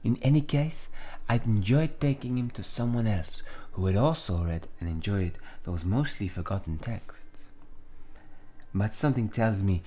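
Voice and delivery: put-on measured, hammy French accent; Villanelle. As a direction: reminisce in an amateur French accent. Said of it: "gonna give Villanelle a French accent".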